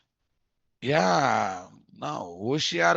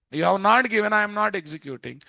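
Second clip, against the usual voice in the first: voicing the method; 6 semitones higher, faster than usual. Voicing the Supports attribute.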